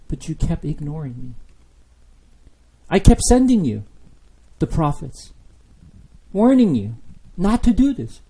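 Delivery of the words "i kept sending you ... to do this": raised, higher pleading; God's hurt complaint. Acted. Preacher voicing God rebuking his people, raised and pleading. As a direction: press the hurt home.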